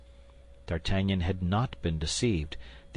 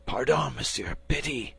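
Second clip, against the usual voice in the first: pleading; 4 semitones higher, 3 dB quieter than usual. Acted. Bandit pleads for mercy.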